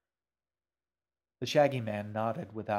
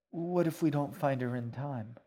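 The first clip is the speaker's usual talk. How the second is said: higher-pitched anxious question; mildly fearful, voice raised in pitch; worried girl; 5 semitones higher than usual. Acted. Girl fears for missing mother.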